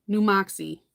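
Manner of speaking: New Moxie in a Boston accent. Real, not acted. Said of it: "I say it with the Boston accent".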